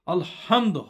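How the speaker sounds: heavy, throaty H in "আলহামদু"; "আলহামদু" with a strongly pronounced big ha. Shown as a demonstration. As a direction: press hard on the "হা" of "আলহামদু", the big Arabic ha. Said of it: "হটা উচ্চারণ বেশি করবেন".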